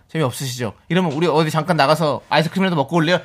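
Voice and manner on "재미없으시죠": low, soft approach; friendly coworker. Acted. Male coworker inviting colleague out for ice cream, low and soft. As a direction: ask low and gently. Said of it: "근데 동료가".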